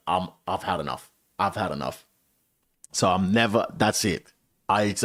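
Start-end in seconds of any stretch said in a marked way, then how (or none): 0.1-2.1 softly retold resignation; quietly fed up. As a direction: say it low-key, worn out and done. Retelling his defeated resolution to quit.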